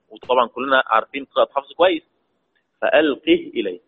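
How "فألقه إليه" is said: فألقه with the final ha stopped and silent; sukun reading. Shown as a demonstration. Teacher reciting for students, فألقه with a silent ha. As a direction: say فألقه ending on a still h, no vowel. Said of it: "يبقى السكون".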